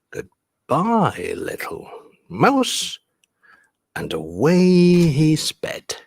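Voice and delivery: animated verse with high exclamations; story reading. Acted. Teacher reading the fox's flight, lively storytelling. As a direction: act out the fox, then settle into narration. Reads the picture book aloud.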